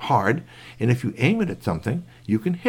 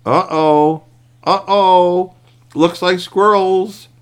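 much higher and louder, worried; alarmed uh-oh; 8 semitones higher, 8 dB louder, much slower than usual. Acted. Curtis facing the squirrels, loud alarmed uh-oh. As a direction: blurt it out in alarm.

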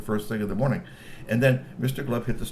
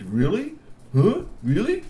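high, louder delighted questions; high intrigued troll; 9 semitones higher, 4 dB louder than usual. A narrator's reading. Mister Glove thrilled to film his family, high and eager. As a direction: marvel at the idea.

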